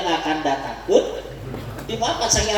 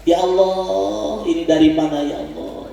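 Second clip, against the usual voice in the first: imitated tearful prayer. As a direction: imitate someone moved to grateful tears. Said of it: "ini sering nangis". (meniru tangis syukur, mendayu)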